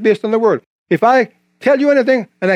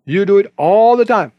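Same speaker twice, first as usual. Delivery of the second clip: slow, measured rebuke, lightly voiced as God; a slow, deliberate reproof with drawn-out words; slower than usual. God answers the cocky preacher, slow mild rebuke. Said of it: "And God said".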